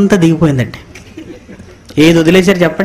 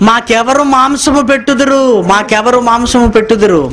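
higher, whining lament; mock wailing; 5 semitones higher than usual. Preacher mocks Israelites crying for meat, high whine. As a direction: wail it like crying children.

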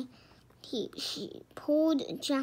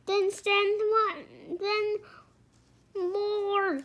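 higher, forceful command; thundering; 7 semitones higher, 3 dB louder, slower than usual. A narrator's reading. Christmas knight demanding more knights, thundering. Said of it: "thundered the Christmas knight".

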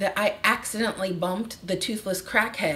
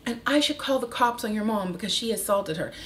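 mock manager voice; 4 semitones higher than usual. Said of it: "She's like".

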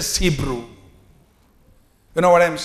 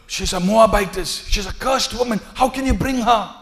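scandalized gossip; 4 semitones higher than usual. Acted. Townsfolk gossiping about Ruth.

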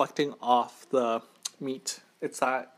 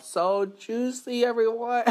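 excited; 8 semitones higher, slower than usual. Real, not acted. Excited about the food.

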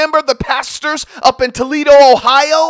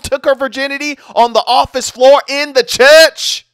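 heated rant. Real, not acted. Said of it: "I just lose it".

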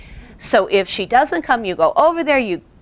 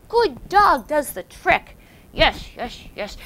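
high, slow, sing-song praise; rewarding praise; 5 semitones higher than usual. Shown as a demonstration. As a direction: gush over the dog. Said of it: "And always reward her".

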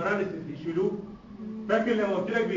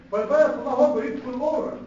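excited exclamation; 5 semitones higher, 8 dB louder than usual. Real, not acted.

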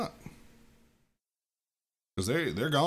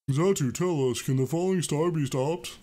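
louder, changed psychic Pokemon voice; Alakazam voice; 5 semitones higher, 4 dB louder than usual. Acted. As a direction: speak like a wise telepathic elder. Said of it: "That's Alakazam's new voice".

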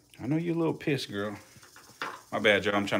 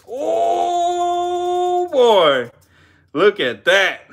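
high, loud cry of delight; real excited shout at the strike; 4 dB louder, much slower than usual. Real, not acted. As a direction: yell out as the snake strikes. Snake strikes the mouse.

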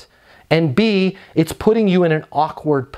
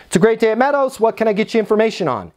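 higher, positive phone greeting, quick second half; smile through the phone; 6 semitones higher, much faster than usual. Shown as a demonstration. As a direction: sound upbeat and down to business. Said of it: "like a smile through the phone".

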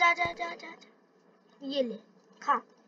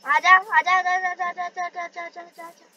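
coaxing call, fading; 3 semitones higher than usual. Real, not acted. Calling a chicken toward him, a sing-song call that fades away. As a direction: coax it along, trailing off to a murmur.

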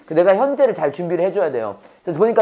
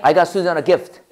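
very slow, each word spaced; slow model sentence; 2 semitones lower, much slower than usual. Shown as a demonstration. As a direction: drill it slowly for the class. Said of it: "해봐".

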